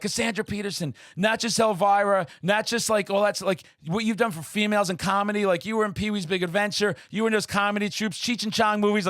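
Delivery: high, gushing fanboy rush; excited fan. Retold or imitated. Starstruck fan gushing to his idol, high and eager. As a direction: blurt out your praise like a starstruck fan.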